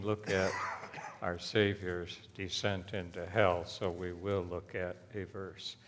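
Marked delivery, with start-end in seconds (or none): none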